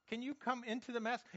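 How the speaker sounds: the same plea, half-laughing; laughing repeat. Pretend. Preacher repeats his prayer to the congregation, laughing. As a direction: laugh as you ask it again.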